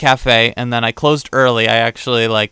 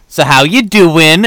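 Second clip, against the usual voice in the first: put-on Long Island accent; 4 semitones higher, 5 dB louder, slower than usual. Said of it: "I wish I could do his accent better".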